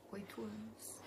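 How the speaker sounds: breathy whispered divine voice; eerie soft whisper. Retold or imitated. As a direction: whisper it like a voice inside your head. Voice of the Lord in dream.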